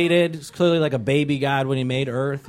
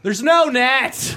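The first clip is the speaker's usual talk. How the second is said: mock shout; 8 semitones higher, much slower than usual. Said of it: "atheists are like".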